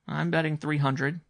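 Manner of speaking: put-on a boy stating his bet with understated gravity; grave young boy. A narrator's reading. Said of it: "said the boy gravely".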